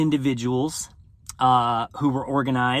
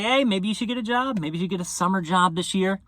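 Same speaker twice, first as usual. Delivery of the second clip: imitated parents; 4 semitones higher than usual. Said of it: "your folks are gonna start to say".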